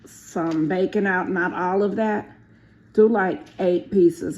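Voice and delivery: loud call across the kitchen. Real, not acted. Wife calling bacon instructions across the kitchen to husband, loud. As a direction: raise voice to reach husband.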